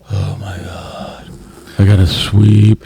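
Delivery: slow, drawn-out mock groan; exasperated kid whine. Dad imitating his son told to sweep, exasperated whine. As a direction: imitate a put-upon child, dragging the words.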